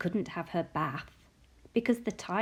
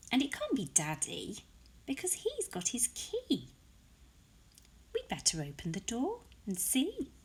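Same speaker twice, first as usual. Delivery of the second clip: lightly raised, wondering mother's voice; Sophie's mummy; 4 dB quieter than usual. Acted. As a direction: puzzle it out like a curious mum. Mummy voiced reading picture book.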